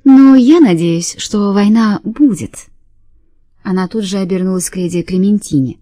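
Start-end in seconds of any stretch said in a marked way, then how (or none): 0.0-2.7 cartoon princess. Fenny gushes about wanting war.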